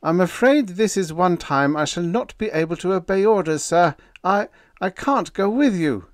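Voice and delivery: a tense, formal refusal; stiffly. A narrator's reading. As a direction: refuse orders, holding himself rigid. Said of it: "He said stiffly".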